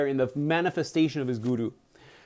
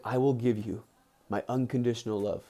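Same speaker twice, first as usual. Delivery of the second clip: soft, lower voice for a guru's promise; tender vow; 6 semitones lower, 7 dB quieter than usual. Retold or imitated. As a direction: gently voice the guru's pledge of love. Guru's solemn vow of love.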